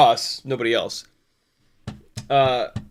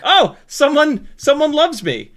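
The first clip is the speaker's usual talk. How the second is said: much higher, slow, gushing delight; mock excitement; 11 semitones higher, 6 dB louder, slower than usual. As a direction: squeal like someone finally noticed you. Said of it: "he'll get excited, like".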